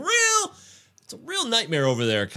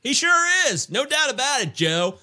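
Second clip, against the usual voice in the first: booming sports announcer, pitched up. Pretend. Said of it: "I'm doing my announcer voice here".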